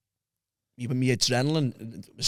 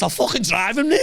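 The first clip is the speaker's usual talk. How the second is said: higher, louder mock of the wife; wife offering to drive him to the police, higher and louder; 10 semitones higher, 5 dB louder than usual. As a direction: ham up the eager wife.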